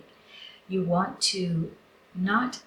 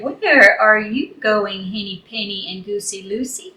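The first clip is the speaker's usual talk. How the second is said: rooster voice; 5 dB louder than usual. Acted. Rooster Wooster questioning the travellers, lightly voiced rooster. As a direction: draw it out like a proud rooster. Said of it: "And he said".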